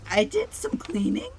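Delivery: hoarse from breathing dust; rough, dusty throat voice; coughing on dust. Real, not acted. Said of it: "her voice is having some issues".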